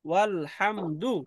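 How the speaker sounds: "ওয়াল হামদু" in separate syllables; teacher modelling "ওয়াল হামদু" bit by bit; broken into syllables. Shown as a demonstration. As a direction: sound out "ওয়াল", "হাম", "দু" piece by piece. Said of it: "এইভাবে একটু ভেঙে ভেঙে বললাম".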